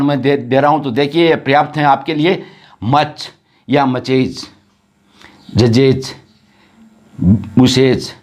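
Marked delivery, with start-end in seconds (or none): 2.8-8.1 मचेज, जजेज and बुसेज ending in iz; plural with iz ending. Shown as a demonstration. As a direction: slowly add the extra iz syllable on मचेज. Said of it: "यहाँ sound इसकी बोली नहीं जाती है".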